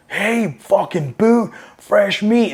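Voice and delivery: high, drawn-out mock yell; retold jeering yell. Older Marines heckling the new arrivals, mock yell. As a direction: imitate a heckler calling out, stretching each word. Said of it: "just start fucking screaming".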